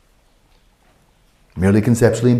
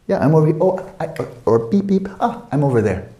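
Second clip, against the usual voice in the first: mock excited call; 6 semitones higher than usual. Acting someone finding their car.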